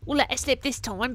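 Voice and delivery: "We'll let it slip" with a light Southern lilt; a touch of Southern kid swagger; lightly Southern warning; Southern accent. Acted. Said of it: "I forgot I was doing Southern".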